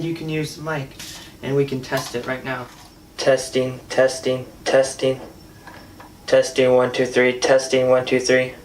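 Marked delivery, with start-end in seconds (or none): 3.2-8.5 louder testing, one two three, sent through a PA speaker; mic check through the speaker. Real, not acted. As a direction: count into the handheld mic so it booms out of the speaker. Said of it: "it coming out of the speaker".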